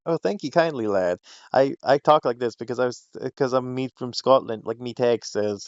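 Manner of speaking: put-on light, playful Scottish gargoyle accent. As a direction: put on a mild Scottish lilt. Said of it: "He had the Scottish accent to him".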